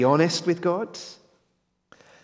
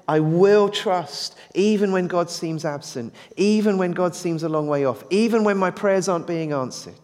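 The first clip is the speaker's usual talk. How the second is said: defiant; 3 semitones higher than usual. Retold or imitated. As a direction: vow it against the odds. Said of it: "It's a defiant".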